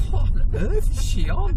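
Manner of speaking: high, slow, incredulous mock voice of the lads. Husband voices the lads mocking Sandra, incredulous. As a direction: sneer it like baffled strangers.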